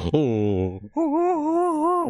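climbing, panicky string of ohs; freaking out. Shown as a demonstration. Player showing how game gets heart pumping, freaking out. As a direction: show panic rising into a high pitch. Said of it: "like I'm freaking out".

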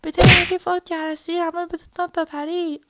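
loud, high scolding call; angry scolding. Acted. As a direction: catch him in the act and yell his name. Sister catches brother on bed. (صراخ غاضب على الأخ)

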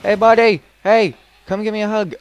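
bright friendly call to a buddy; excited greeting. Real, not acted. Greeting a creature happily.

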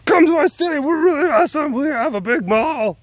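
high loud boastful voice; mocking Minnesotan brag. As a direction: brag in a shrill mock voice. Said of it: "voicing Minnesota boasting".

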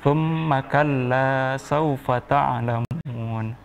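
slow, measured tartil recitation; Quran recitation. Shown as a demonstration. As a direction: recite slowly for a child to repeat. Teacher recites for pupil.

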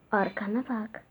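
low, soft menacing warning; menacing low whisper. Acted. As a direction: warn like a lurking villain. Sinister warning from behind.

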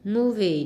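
"movie" stressed on MO; slow "movie" with a stronger first syllable. Shown as a demonstration. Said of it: "nhấn âm một". ("movie" nhấn mạnh âm tiết đầu)

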